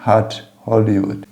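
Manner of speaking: "hat" with an aspirated H, like "Hollywood"; "hat" starting with a blown H; breathy H like Hollywood. Shown as a demonstration. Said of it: "pronunciar o H do jeito".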